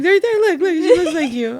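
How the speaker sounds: high, excitedly imitated insistence; mock eager pointing out. Husband shows wife their daughter's look, imitated eagerness.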